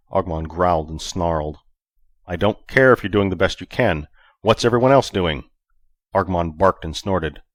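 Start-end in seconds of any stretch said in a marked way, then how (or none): 2.2-5.5 angry. Acted. Vic arguing loudly.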